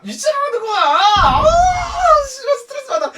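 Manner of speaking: high, loud, laughing outburst of frustration; laughing exasperation. Real, not acted. Retelling the rude customer to viewers, laughing shout. Laughing while recalling the stress.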